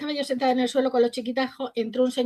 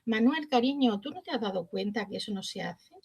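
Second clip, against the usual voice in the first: gentle teacher's rebuke; 5 dB quieter than usual. Retold or imitated. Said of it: "había como una armonía".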